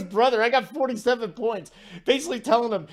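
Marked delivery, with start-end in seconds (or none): 0.0-1.7 laughing, higher mock Serbian accent; hammed-up Serbian accent through a laugh; Jokic accent. Host retelling Jokic's taunt to Gobert, laughing mock Serbian accent. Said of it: "that's a horrible Jokic accent".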